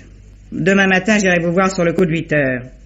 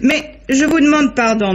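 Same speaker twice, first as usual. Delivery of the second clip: apologising through a light laugh; amused, a little slower, pitch lifted; laughing apology; 8 semitones higher, slower than usual. Acted. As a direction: laugh it off while excusing herself. Amused apology after teasing exchange.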